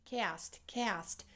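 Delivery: soft demo of "cast" with a gliding A; "cast" quietly, its A a diphthong; Chicago diphthong A. Shown as a demonstration. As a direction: say "cast" softly, two vowels smooshed together. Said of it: "It's a diphthong".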